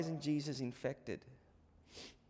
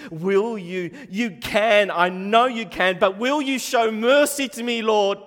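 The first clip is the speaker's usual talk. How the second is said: raised, louder pleading plea; pleading leper; 7 semitones higher, 15 dB louder than usual. Retold or imitated. Leper kneeling before Jesus, raised pleading voice. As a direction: beg Jesus with rising urgency. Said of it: "he's pleading and he's imploring Jesus".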